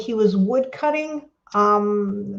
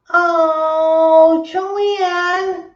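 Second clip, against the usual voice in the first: higher, louder sigh of pity; host consoling a viewer who missed the contest; sympathetic; 7 semitones higher, 5 dB louder than usual. Real, not acted. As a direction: aww for a let-down friend.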